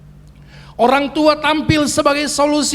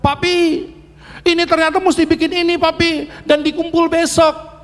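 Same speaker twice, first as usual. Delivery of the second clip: put-on a lightly higher child voice, hurried; child's sudden plea; 4 semitones higher than usual. Child telling dad late about homework, lightly hurried. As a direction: play the kid blurting out homework late. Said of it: "dia ngomongnya mendadak".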